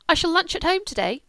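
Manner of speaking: put-on haughty young lady refusing; defiant refusal. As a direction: make it plain you won't go.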